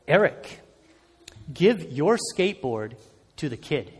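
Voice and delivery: soft, low voice in his head, fading at the end; quiet inner voice. Retold or imitated. Inner voice of God speaks.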